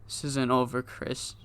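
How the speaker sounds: soft, fading menace trailing into a whisper on the name; quiet threat. Retold or imitated. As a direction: threaten your rival under your breath. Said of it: "he says".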